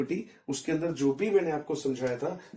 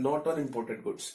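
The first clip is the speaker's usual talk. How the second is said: very slow and softer dictation; dictating notes; 3 semitones lower, 6 dB quieter, much slower than usual. Shown as a demonstration. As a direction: slowly read the note out for copying. Teacher dictates notes in English. (धीमी और हल्की आवाज़ में लिखवाना)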